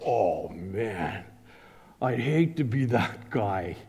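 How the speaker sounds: a lightly voiced shop-class kid; mock student mutter. Students in shop class reacting, lightly voiced low aside. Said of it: "we're all sitting in shop class going".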